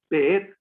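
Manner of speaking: "beet" as be-ET, second syllable stressed; accento sull'ultima sillaba. Shown as a demonstration. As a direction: say "beet" with a long, loud final "et". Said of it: "Con acento en la et".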